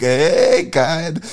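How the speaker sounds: high, put-on Jewish-accent caricature; mock Jewish accent as Satan; caricatured Jewish accent. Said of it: "not gonna do a Jewish impersonation".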